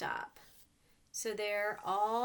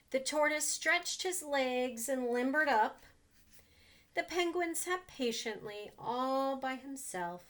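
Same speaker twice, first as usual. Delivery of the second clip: put-on reading to children. A narrator's reading. Reads picture book to children.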